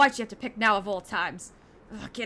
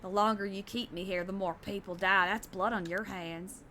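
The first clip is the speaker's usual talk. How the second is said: menacing villain; 4 semitones lower, 5 dB quieter than usual. Acted. Voices hostage-taking villain in game.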